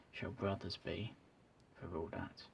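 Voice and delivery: soft whispered quote fading out; whispering. Real, not acted. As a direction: hush it down to a whisper. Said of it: "I'm not usually whispering".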